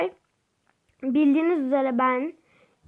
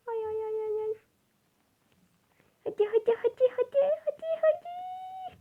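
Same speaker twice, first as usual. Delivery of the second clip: frantic urging; 11 semitones higher, 8 dB quieter than usual. Real, not acted. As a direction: pitch climbing higher with every hadi. Urging her character on in game. (her hadi'de daha tizleşen telaşlı sıkıştırma)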